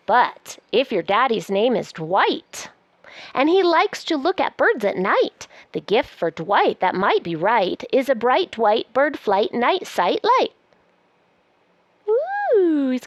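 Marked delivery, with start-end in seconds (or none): 0.1-10.5 lively, sing-song picture-book reading; reading to children. Acted. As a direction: read it aloud like a bedtime book. Reads the book aloud.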